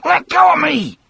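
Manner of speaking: high, frantic cry to be let go; Percy shouting. Acted. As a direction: shout it high and panicked like a cornered man. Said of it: "Percy shouted".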